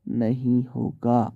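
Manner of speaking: slow, drawn-out "can't do it"; mildly dishearten the listener, stretching the last words; discouraging. Acted. Teacher acts someone breaking another's confidence, slow and discouraging. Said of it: "आप उसका हौसला तोड़ रहे हैं".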